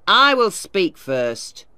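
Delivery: loud, slow, defiant outburst; shouted. Acted. Miller shouts down the lawyer at the mill, loudly. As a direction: cut him off with a roar. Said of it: "Mister Tulliver shouted".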